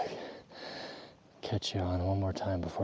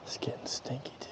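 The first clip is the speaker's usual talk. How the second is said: whispering; 4 semitones higher, 7 dB quieter than usual. Real, not acted. Stalking elk, keeping quiet.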